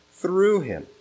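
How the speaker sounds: "through" high and stretched, falling onto "Him"; emphasis on through. Shown as a demonstration. Preacher marking the repeated word for the congregation, "through" stressed. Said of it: "to emphasize a word".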